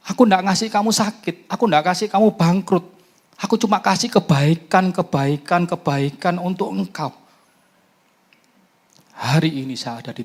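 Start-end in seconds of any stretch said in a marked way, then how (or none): 0.1-7.1 booming voice of God. Retold or imitated. God's reply voiced in prayer.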